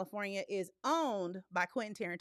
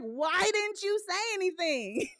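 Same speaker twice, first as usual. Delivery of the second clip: laughing disbelief; 7 semitones higher than usual. Retold or imitated. Host retelling asking her sister, laughing. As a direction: laugh while scolding. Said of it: "And I'm like".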